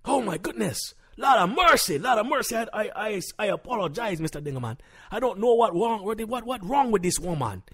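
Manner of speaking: high-pitched, exasperated lament; appalled apology. Acted. Husband apologizes to the host for his wife, exasperated. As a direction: apologize in high-voiced dismay.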